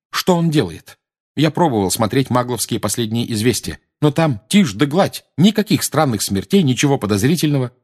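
put-on high, eager teen questions; lightly voiced Harry; Harry's voice. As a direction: press for answers.

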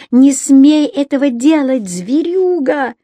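high raging shout at the brute; furious yell. Acted. Рони keeps yelling at her father, high raging shout. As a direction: hurl it at him. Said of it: "заорала она не своим голосом".

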